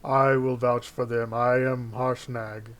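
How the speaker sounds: giant voice. Acted. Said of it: "Harshnag says".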